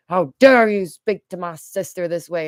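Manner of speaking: playact a protective brother's loud scolding; indignant brother. Retold or imitated. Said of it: "my brother picks up the phone and he goes".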